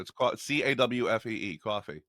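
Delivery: New Jersey accent; thick Jersey accent. Shown as a demonstration. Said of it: "that's how we say it".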